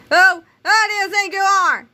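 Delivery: high, loud furious shriek; screaming outrage. A narrator's reading. Secretary screaming at the kid, high and loud. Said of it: "rapidly becoming a scream".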